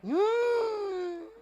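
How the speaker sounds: long, very high whine; mock whine. Forgetful man whines under God's questioning, high mock cry. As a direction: hold a thin high mock-crying hum.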